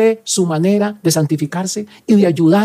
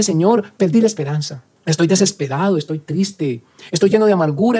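spoken prayer. Acted. Prayer voiced for the listener.

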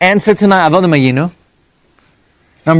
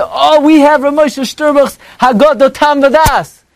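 imitating store clerk; 9 semitones higher, slower than usual. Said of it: "they can say".

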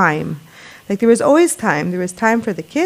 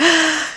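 deep steadying breath; 8 semitones higher than usual. Retold or imitated. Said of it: "a deep breath".

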